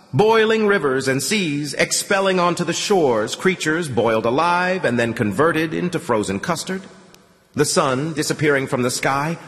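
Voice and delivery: put-on old priest's swelling menacing rant; menacing, building. A narrator's reading. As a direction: build into a prophet's thunder. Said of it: "more convincing and menacing than the last".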